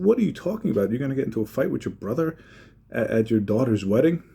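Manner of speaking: you can't believe what he's saying; retold disbelief. Friend questions planned fight at wedding, incredulous.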